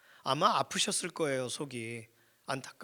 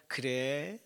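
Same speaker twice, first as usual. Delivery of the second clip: loving mother; much slower than usual. Acted. Mother picking up her child's phone call, lovingly. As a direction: imitate a mother answering tenderly. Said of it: "되게 사랑스럽게 받아주세요".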